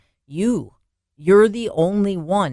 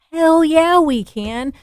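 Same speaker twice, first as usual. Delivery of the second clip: a sudden burst, pitched high and loud; fired-up shout; 11 semitones higher, 7 dB louder, slower than usual. Real, not acted. The host rallying listeners, shouting an excited yes. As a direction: Hell yeah, thrown out at full volume. Fired-up answer to own question.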